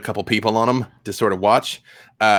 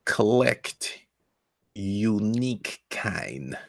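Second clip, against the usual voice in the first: put-on Russian accent; 4 dB quieter, slower than usual. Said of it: "cannot do a prolonged Russian accent".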